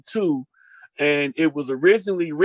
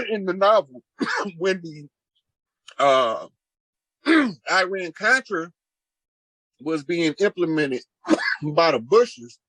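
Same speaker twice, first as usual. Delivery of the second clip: talking while chewing something crunchy; words around a mouthful of chips; crunching chips. Real, not acted. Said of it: "y'all, I'm crunching".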